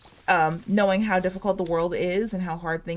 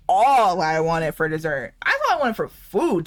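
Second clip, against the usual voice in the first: emphatic gushing; 4 dB louder than usual. Retold or imitated. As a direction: gush it with hammed-up insistence. Acting out cake plea to mom.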